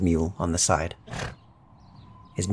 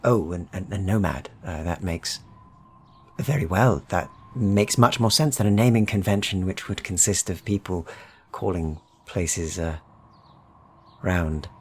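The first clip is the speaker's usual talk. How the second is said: friendly stranger nosing in on the locals; Midlander trader. Acted. GM voices the trader.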